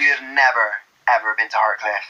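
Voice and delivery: mock-offended broad Bristolian; Bristol accent. Defending Shereese to a mate, mock-offended Bristol accent. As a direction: scold in a thick Bristol accent. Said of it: "I'm from Bristol".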